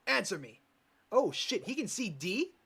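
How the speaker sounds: a man suddenly terrified; panicked yelling. Acted. Killer panics at an unseen ghost, panicked yelling.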